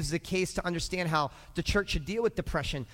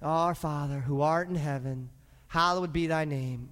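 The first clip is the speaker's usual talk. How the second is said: low, subdued recited prayer; understated, routine Lord's Prayer; rote home prayer; 4 semitones lower than usual. Acted. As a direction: recite it dutifully, without any fire. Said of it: "I just can't pray like that".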